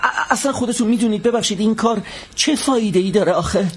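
high, fast, laughing plea; high nervous laughing plea; nervous pleading. Acted. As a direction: babble with fear.

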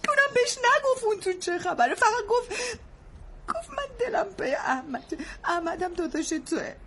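crying retelling. Acted. Tearful retelling of betrayal.

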